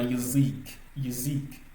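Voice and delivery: yazik with weight on a lengthened "zi"; stressed final i. Shown as a demonstration. Teacher showing learners the accent, yazik stressed on the i. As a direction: lean on the second syllable of yazik. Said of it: "l'accentuation est sur le i".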